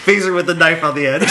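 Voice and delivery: loud, laughing through the words; laughing shout. Real, not acted. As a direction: shout it while cracking up. Excited joke, group laughing.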